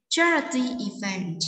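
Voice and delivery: "charity" stressed, "event" falling away; slow model reading, weight on "charity". Shown as a demonstration. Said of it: "read the words with the correct stress".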